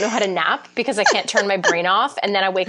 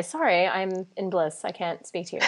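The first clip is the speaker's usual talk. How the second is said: softer, drifting blissful apology; mock blissful brush-off; 6 dB quieter than usual. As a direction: fade out like you're too serene to talk. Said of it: "call my accountant and say".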